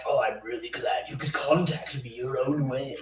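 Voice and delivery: lightly voiced old grandfather; a hint of the grandfather, barely changed; grandfather's voice. Dieter retelling his grandfather's words, lightly voiced. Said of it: "His voice wasn't like that".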